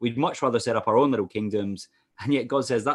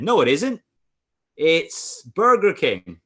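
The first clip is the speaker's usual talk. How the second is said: loud pantomime-style contradiction, pitched up; higher, louder mock argument; pantomime heckle; 5 semitones higher, 6 dB louder, slower than usual. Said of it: "it's not pantomime".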